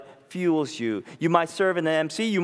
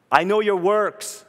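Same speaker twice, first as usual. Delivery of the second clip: slow, louder, weighted I know your works; emphatic quote; 5 semitones higher, 5 dB louder than usual. Retold or imitated. Preacher quoting Jesus to the church, slow and emphatic. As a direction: land know hard and slow.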